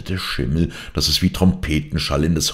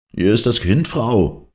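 higher, louder shout against the storm; shouting servant; 7 semitones higher, 4 dB louder than usual. A narrator's reading. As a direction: shout to the mother over the wind. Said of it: "schrie Jon ihr zu".

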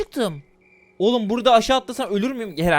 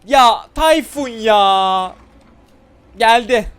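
panicked; 3 semitones higher, 10 dB louder, much slower than usual. Real, not acted. Panic as Granny arrives.

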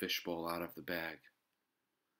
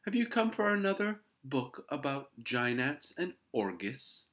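high, loud lady voice; joking librarian; 8 semitones higher, 8 dB louder than usual. A narrator's reading. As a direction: tease a young reader with a shared joke. Librarian teases the boy.

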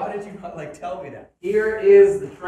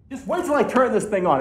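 voice crack. Real, not acted. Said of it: "that was a horrible voice crack".

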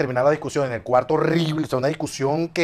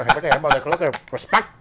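broken English; 2 semitones higher, 4 dB louder than usual. Retold or imitated. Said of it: "en inglés recién llegado".

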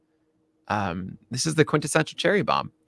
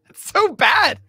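laughing; 4 semitones higher than usual. Real, not acted. Cohost cracks up at pronunciation.

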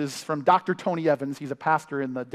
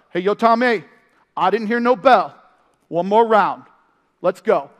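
Rocky voice; 3 semitones higher, 7 dB louder than usual. Retold or imitated. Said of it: "Rocky gets up".

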